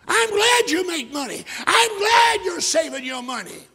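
loud ironic go-ahead; preacher loudly urging his cousin on with irony; mock encouragement. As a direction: egg him on, half mocking. Preacher mocking cousin's riches.

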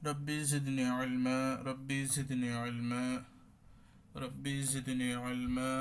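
slow, chanted Arabic prayer; slow dua recitation. Acted. Teacher opening class with a slow prayer. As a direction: intone the dua slowly, each word drawn out.

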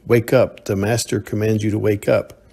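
a commanding shout that fades into a firm order. Acted. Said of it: "snapped his fingers and shouted".

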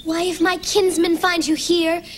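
lightly voiced lovestruck Juliet. Bunny Juliet calling to her Romeo, a touch dramatic. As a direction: plead sweetly to your Romeo. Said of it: "playing Juliet".

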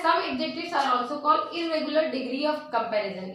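reads the rule very slowly, word by word; slow dictation. Shown as a demonstration. Teacher dictating a grammar rule to students, very slow.

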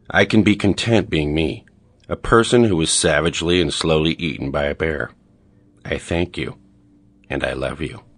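measured, soothing meditation guide voice; guided meditation. Acted. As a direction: lead them gently through it, in full earnest. Continues the mock guided meditation.

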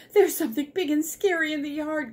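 high, fast frightened squirrel voice; panicked squirrel. Acted. Squirrel warning the chickens, panicked. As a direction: rush it out high in alarm. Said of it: "gasped the squirrel".

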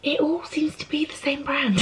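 hushed late-night whisper; library whisper. Real, not acted. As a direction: whisper it quietly. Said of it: "I'm whispering 'cause people are in bed".

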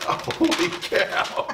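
breathless laughing whisper. Real, not acted. Right after pie hit.

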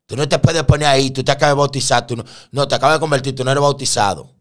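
loud, high-pitched telling-off; acted, emphatic objection; indignant scolding. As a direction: scold the newcomer as a churchgoer would. Churchgoers scold the new convert.

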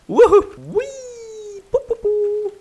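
high excited whoops. Real, not acted. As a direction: cheer it out high. Celebrating high.

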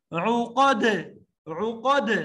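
loud عقد with a bouncing final د; qalqala on dal. Shown as a demonstration. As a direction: pop the د of عقد. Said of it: "ساکن ہونے کی حالت میں آواز کا ہلنا".

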